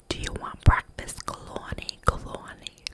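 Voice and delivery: a whispered mock boom, pitch jumping up high. Old Italian host calling her to breakfast, whispered mock boom. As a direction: imitate his booming call, held back to a whisper. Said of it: "his voice is just so booming".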